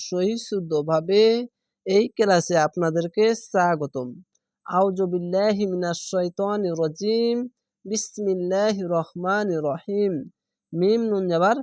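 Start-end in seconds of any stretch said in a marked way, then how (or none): 4.7-10.1 slow, measured Quranic recitation. Acted. Teacher opening class with slow recitation. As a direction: intone the opening formula slowly.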